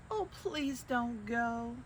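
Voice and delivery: high, pleading creature voices; pleading monsters. Acted. Wild things begging Max to stay, pleading high. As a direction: beg him not to leave. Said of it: "But the wild things cried".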